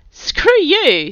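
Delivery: high, loud indignant outburst; outraged. A narrator's reading. Finn rebuking Kurt over his jailbait jibe, outraged. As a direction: throw it back at him in outrage. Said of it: "not having to feign her outrage".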